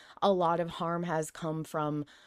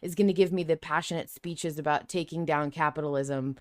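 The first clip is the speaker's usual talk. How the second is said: sarcastic. Retold or imitated. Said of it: "I would be like".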